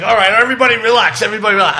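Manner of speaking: mock call for order over a panicked room; retold commanding call. Teacher addressing kids after slamming the door, retold commanding call.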